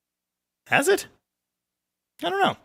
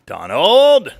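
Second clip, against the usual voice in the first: loud shout of the name, pitched up; calling out; 5 semitones higher, 8 dB louder than usual. Real, not acted. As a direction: holler the name suddenly. Calls out a name sharply.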